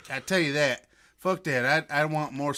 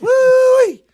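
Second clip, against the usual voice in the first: redneck holler; 14 dB louder than usual. Acted. Redneck banter, loud holler.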